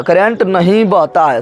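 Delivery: drawn-out "current नहीं बहता है"; slow emphatic repeat. Shown as a demonstration. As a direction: drive the point home slowly. Teacher repeats slowly for emphasis. (धीरे, ज़ोर देकर दोहराते हुए)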